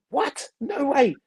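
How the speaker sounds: high-pitched amazed reaction; astonished disbelief. Retold or imitated. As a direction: react as if stunned by the news. Acted astonished reaction to the news.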